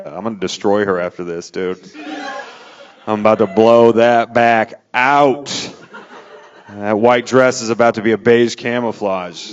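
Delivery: hammed-up macho bravado; cocky trash talk. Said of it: "I'm like".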